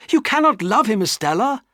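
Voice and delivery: high, loud pleading cry; anguished cry. Acted. Pip begging Estella not to love Drummle, anguished cry. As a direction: cry out against it. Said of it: "I cried".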